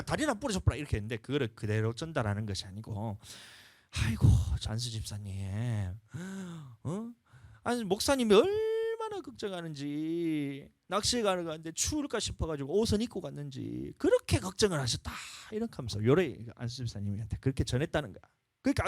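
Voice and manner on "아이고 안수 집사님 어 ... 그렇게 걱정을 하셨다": gentle reassurance. Retold or imitated. Friend softening the message.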